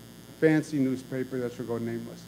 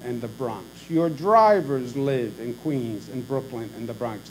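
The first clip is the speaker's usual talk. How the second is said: heated defiance; 3 semitones higher than usual. Retold or imitated. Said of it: "go from zero to a hundred".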